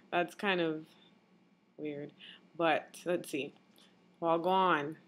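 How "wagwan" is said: a casual Jamaican Wagwan, tossed off; Jamaican patois greeting. Shown as a demonstration. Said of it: "but in Jamaican dialect".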